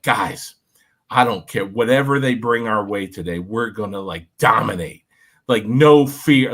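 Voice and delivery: half-mocking locker-room speech that lands hard on the last words; Coach Carter pep talk. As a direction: fire up the team like a movie coach. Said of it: "Coach Carter buddy".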